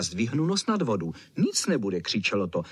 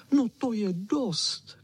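high, slow whine of a small dog; whining; 10 semitones higher, slower than usual. A narrator's reading. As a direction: whimper it out impatiently. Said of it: "kničel".

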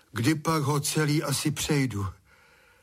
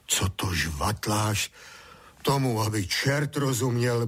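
grumbling; slower than usual. Acted. Father grumbling at his babbling son. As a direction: mutter in disgust. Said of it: "bručel tatík".

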